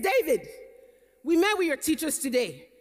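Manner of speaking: put-on a light Nigerian accent, mother to son. Mother confronting her son after dinner, in a light Nigerian accent. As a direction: slip into a mild Nigerian accent, firm mom. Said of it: "I've already switched to my Nigerian accent".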